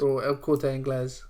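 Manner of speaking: El Corte Inglés with Spanish vowels; a light Spanish accent on El Corte Inglés. Shown as a demonstration. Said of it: "you sounded like Rafa Benitez".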